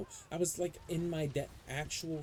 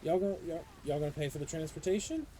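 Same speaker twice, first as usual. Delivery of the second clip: mock angry parent; 5 semitones higher than usual. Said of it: "I'm like".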